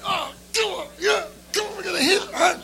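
hyped like he can't wait to hit hard; pumped-up reply. Retold or imitated. He answers the other drummer in a high, fired-up voice. Eager reply to the audition news.

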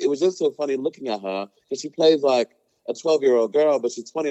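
a weak attempt at an Australian accent; a hint of an Australian accent, quoting a rapper; bad Australian accent. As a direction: imitate a rapper in a mild, shaky Australian accent. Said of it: "what is this accent?".

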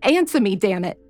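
sharp high shout at her captor; demanding scream, pitch jumping up. Acted. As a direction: yell it in desperation. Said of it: "She screamed".

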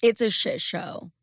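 lost voice, rough and strained; hoarse voice. Real, not acted. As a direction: talk through a voice that's gone. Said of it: "as you can hear, I'm sure, I lost my voice".

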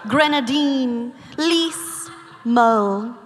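fabric list in affected mid-Atlantic; lightly hammed mid-Atlantic reading; mid-Atlantic accent. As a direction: savor each word in a mid-Atlantic accent, pausing between them. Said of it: "I think it's called medicated mid-Atlantic".

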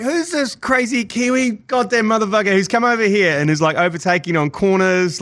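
high-pitched mock astonishment, easing down; baffled American onlookers. Imagined Americans reacting to a Kiwi driver, high mock disbelief. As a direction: play the locals stunned by a newcomer. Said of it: "They would have been like".

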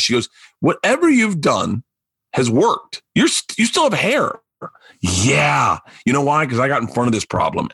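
smooth podcast sponsor read. Acted. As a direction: sell it like a host-read ad. Host reads a sponsor ad.

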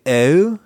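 imitating the rural Pennsylvania "Oh". Shown as a demonstration. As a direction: voice the farm kids' "Oh". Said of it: "a slightly different sound, um, in their O's".

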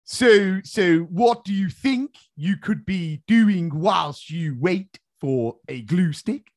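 a touch of blustering Boris, slow and drawn-out; lightly voiced Boris quizzing a class; Boris impression. Boris in a classroom, asking pupils, slowly blustering. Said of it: "if I was Boris in a classroom".

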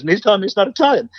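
high, mock-indignant complaint; upset. Italian friend complaining he was told he isn't Italian, mock upset. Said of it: "I was so upset".

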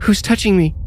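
put-on high-pitched frightened boy; breathless child. A narrator's reading. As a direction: ask it like a scared, breathless child. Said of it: "Tommy asked breathlessly".

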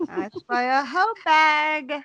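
high, slow, amused echo; laughing repeat. Real, not acted. Host repeating friend's joke, laughing high and slow. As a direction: relish the line through a laugh. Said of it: "That's so funny".

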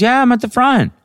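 very high, loud mimicked friend; high-pitched, oblivious insistence; Bridget insisting. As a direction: imitate a friend squawking down the phone. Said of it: "She goes".

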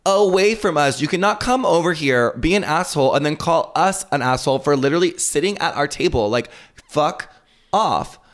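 reliving telling him off; retold snapping. To the man who called Rosé an asshole, a heated retold outburst. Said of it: "And I snapped".

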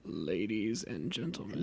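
low, quiet, hoarse-sounding creepy voice; creepy low voice like a sore throat; swollen tonsils voice. Shown as a demonstration. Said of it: "do it kinda like my brother, like, sorta creepy".

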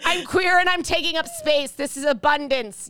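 hammed-up proud declaration; mock proud. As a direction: announce it like a proud manifesto.

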